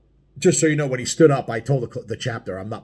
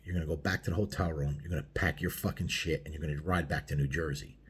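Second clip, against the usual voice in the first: low, hushed threat, still voiced; retold whisper; 4 semitones lower, 6 dB quieter than usual. Biker laying down terms into a prospect's ear, quiet menace. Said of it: "I whispered in his ear".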